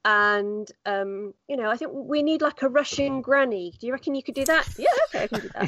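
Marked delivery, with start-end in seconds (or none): 1.7-4.7 higher quoted voice. Retold or imitated. Retelling producer's request. 4.8-5.7 laughing reply. Retold or imitated. Retelling her own reply.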